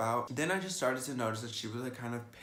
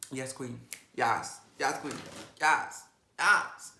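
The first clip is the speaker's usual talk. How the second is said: sassy yes queen; 3 semitones higher, 6 dB louder, much slower than usual. Retold or imitated. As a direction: placate her with sassy yeses. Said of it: "So I was just like".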